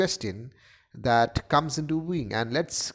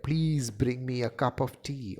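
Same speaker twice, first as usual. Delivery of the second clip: slow, softer plea; begging; 3 dB quieter than usual. Shown as a demonstration. Lecturer showing Stanislavski's actors how to beg, begging. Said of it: "How can you beg".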